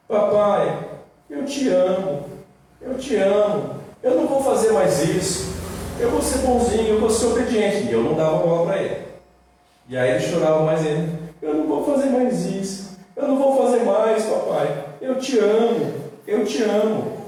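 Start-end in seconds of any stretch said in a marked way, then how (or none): 0.1-7.8 put-on pleading child. Small son pleading while crying. 11.4-17.2 put-on pleading child. Son crying harder, pleading.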